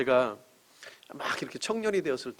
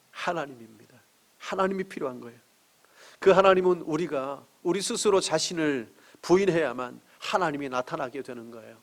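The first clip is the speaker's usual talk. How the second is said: normal talking voice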